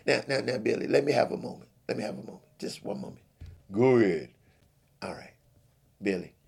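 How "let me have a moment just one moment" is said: hushed pleading whisper. Acted. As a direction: quietly beg for a moment. Pastor asks for a moment.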